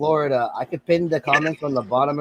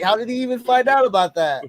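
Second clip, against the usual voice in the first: mildly incredulous, pitched up high; retold disbelief; 8 semitones higher than usual. Host recalling the giveaway hunter turning up, retold disbelief. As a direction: replay your baffled reaction in a higher voice.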